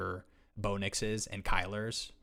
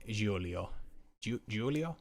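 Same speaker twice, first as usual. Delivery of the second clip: put-on Italian accent; slower than usual. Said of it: "Should I not do the accent?".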